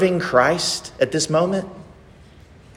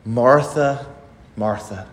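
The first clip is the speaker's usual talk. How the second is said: tender, not frustrated; 4 semitones lower than usual. Acted. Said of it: "don't hear in those two words that he's frustrated".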